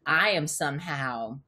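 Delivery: slow hushed whisper of disbelief. Retold or imitated. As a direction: breathe it out slowly, awed. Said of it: "it made me believe, like".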